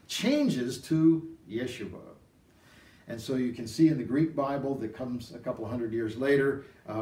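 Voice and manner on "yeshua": "Yeshua" said slowly, syllable by syllable, as Yeshua; Hebrew pronunciation. Shown as a demonstration. Preacher teaching the Hebrew name, slowly sounding "Yeshua". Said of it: "the pronunciation of the name".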